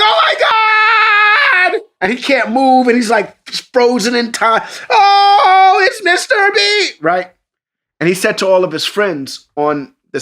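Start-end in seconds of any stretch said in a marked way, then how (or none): 0.0-1.8 very high, loud, slow awed scream; boy can't move, screaming at his hero; starstruck kid. Retold or imitated. Son frozen in awe. 4.9-7.0 very high, loud, slow awed scream; boy can't move, screaming at his hero; starstruck kid. Retold or imitated. Son frozen in awe.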